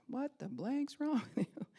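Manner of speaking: mock angry dad; angry father. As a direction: bark at the fallen kid. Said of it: "it came out different".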